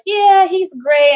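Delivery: high, slow, doting praise; proud mom. Retold or imitated. Mother praising her son to the receptionist, doting.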